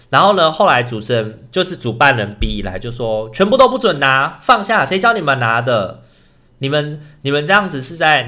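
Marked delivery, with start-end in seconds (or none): 3.3-8.2 mock scolding. Organizer scolding social workers.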